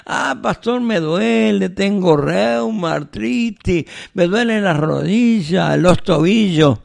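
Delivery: high, whiny mock complaint; imitating a congregant whining about his aches. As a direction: ham up the aching member's moaning. Pastor mimics a complaining member.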